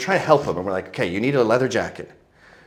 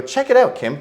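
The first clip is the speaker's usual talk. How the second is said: mock cocky teen; 13 semitones higher, 5 dB louder than usual. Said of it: "I go".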